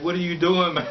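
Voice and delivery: high, loud, exasperated retold yell; loud disbelieving demand, mid-laugh; outburst. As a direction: shout it at him, laughing through it. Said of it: "the guy just went off".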